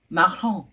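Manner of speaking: marron with a French R and nasal ending. Shown as a demonstration. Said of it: "It's marron".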